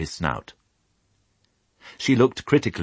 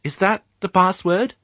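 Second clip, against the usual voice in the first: high, louder dog voice; calling out; 5 dB louder than usual. Acted. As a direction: call after the sheep eagerly. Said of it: "called Fly after them".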